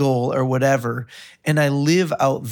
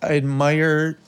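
getting emotional; 2 semitones lower than usual. Real, not acted. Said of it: "I'm getting a little emotional".

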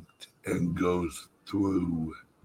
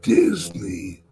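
whispering. Real, not acted. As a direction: breathe it like a dark secret. Dramatic conspiratorial reveal.

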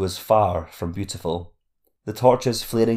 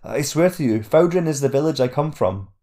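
put-on higher, earnest young voice; pleading boy; 6 semitones higher, 3 dB louder than usual. A narrator's reading.

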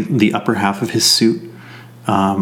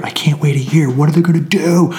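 hushed fan panic, whispered; mock whisper; 6 semitones higher, faster than usual. Fan in the theater whispering in mock panic. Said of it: "then you would have me going".

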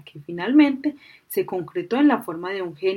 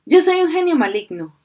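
evil genie; 7 semitones higher, 5 dB louder than usual. A narrator's reading. Genie declares himself evil.

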